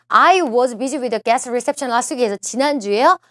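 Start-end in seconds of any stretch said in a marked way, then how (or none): 0.1-2.2 slow reading. Shown as a demonstration. Teacher reads answer option slowly.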